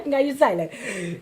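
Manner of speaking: put-on Guyanese accent at normal volume; imitating own childhood Guyanese accent. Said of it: "We had guy in an accent".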